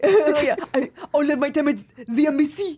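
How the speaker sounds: playful put-on French accent; a lightly hammed French diplomat accent; mock French accent. Joining the friend's embassy bit in mock French accent. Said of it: "this is our serious French accent".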